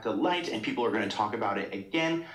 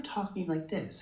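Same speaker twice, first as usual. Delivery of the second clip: lightly mimicked higher, airy little voice; higher, mousy voice; 3 semitones higher, 6 dB quieter than usual. Shown as a demonstration. Showing how a singer changes speech, higher mousy voice. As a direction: lift it up a bit, mousy and airy. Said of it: "bit higher and a little bit".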